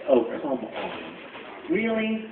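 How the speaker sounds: slow, drawn-out disbelief; a touch of eye-rolling disbelief; exasperated. Retold or imitated. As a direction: drag it out, fed up. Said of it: "I was just like".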